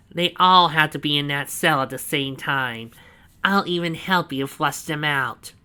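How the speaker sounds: loud, high, slow gloating; proud villain boast. A narrator's reading. Snively proudly showing Donovan the cell, loud and slow. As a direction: savour every word of the boast.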